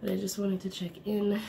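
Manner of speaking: stuffy, congested voice from a cold; sick voice. Real, not acted. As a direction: talk through a head cold. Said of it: "I don't like talking like this".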